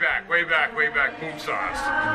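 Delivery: mock home run call, trailing off. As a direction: call it like a half-hearted announcer. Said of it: "give me your home run call with Boom Sauce".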